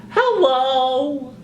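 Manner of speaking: high squeaky puppet greeting; chirpy little puppet hello; sock puppet voice. Acted.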